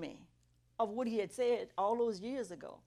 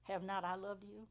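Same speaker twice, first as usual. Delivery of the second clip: lightly voiced God, softer and measured; God's questioning voice; 6 dB quieter than usual. God questioning a complaining woman, softly voiced. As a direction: ask it softly, with quiet gravity. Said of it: "that voice that I had come to recognize".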